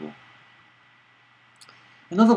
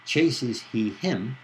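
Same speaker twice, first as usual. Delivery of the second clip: slow, deliberate odd word order; slow demo question; 2 semitones higher, much slower than usual. Shown as a demonstration. Lecturer shows listeners an odd word order, slowly. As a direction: lay out each word slowly as a puzzle. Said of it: "So, for example".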